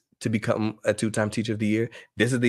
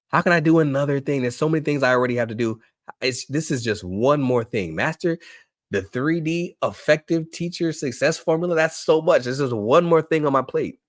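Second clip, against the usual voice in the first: higher-pitched mock protest; overwhelmed complainer; 5 semitones higher than usual. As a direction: act out an overloaded teacher objecting. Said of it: "Somebody else is saying".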